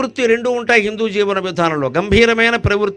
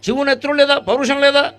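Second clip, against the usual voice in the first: heroic stage dialogue; 7 semitones higher than usual. Retold or imitated. Discourse speaker quoting a patriotic drama line, theatrical declamation. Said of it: "ఓ డైలాగులో".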